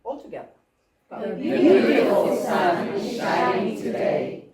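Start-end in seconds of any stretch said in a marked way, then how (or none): 1.2-4.5 slow, loud choral line leaning on "beautiful"; loud group chant punching "beautiful"; stress on beautiful. Shown as a demonstration. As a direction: hit the word "beautiful" together. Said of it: "let's find to emphasize beautiful all together".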